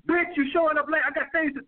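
high, heated mock rant at a late date; the wrong way to check her, pitched high; mock angry scolding. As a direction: snap at her like a bossy boyfriend, hammed up. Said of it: "no, I don't do that".

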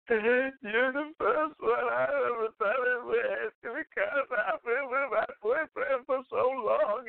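high, slow mock voice of a woman in tears; imitating tearful woman. Man imitating the tearful woman after their night, high and slow. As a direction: pitch it way up and drag it out, imitating her. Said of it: "because she was in tears".

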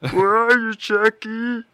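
loud high calling out for Chucky; scared kid calling. Retold or imitated. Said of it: "he's like".

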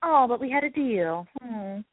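mock petulant little huff; pouty. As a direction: imitate a sulky, wronged dealmaker. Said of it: "he just sounded so pouty".

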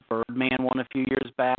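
choppy phone line; bluetooth cutting out. Real, not acted. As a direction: voice breaking up over the line. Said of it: "we're losing you".

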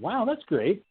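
high, sarcastic wow. Retold or imitated. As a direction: fake delight dripping with sarcasm. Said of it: "I was like".

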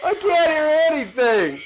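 loud, high, unable to hear; talking loudly. Real, not acted. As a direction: speak up over headphones. Wearing noise-blocking headphones.

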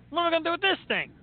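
high, fast disbelieving squeal; incredulous friend. Retold or imitated. Friend staring at the little mug, high incredulous squeal. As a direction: sell his shock at the tiny mug. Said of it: "and he's like".

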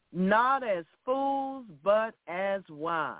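"Not as fools" drawn out, stress on Not; slow emphasis on NOT. Shown as a demonstration. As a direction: lean hard on "Not", slowly. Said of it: "repeats verse slowly".

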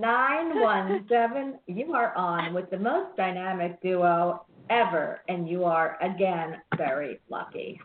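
upbeat on-air caller intro; slow drawn-out call-in intro; radio host intro. Acted.

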